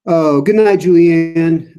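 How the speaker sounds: startled exclaim. Real, not acted. Reacting to a chat name.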